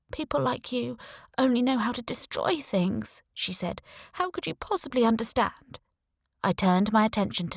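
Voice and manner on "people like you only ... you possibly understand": Sarah's voice. Acted. Sarah lashes out.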